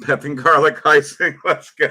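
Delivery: laughing through the words; chuckling it out, can't hold it in; rueful laugh. Real, not acted. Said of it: "I have to laugh".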